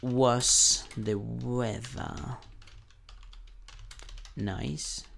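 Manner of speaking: slow model question. Shown as a demonstration. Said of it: "la entonación es diferente".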